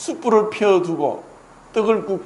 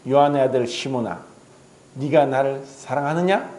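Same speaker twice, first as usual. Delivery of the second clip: tender question; 5 semitones lower than usual. Acted. Jesus asks Peter.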